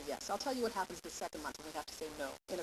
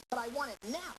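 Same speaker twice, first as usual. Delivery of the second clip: put-on whining child; 5 semitones higher than usual. Shown as a demonstration. Child whines insisting.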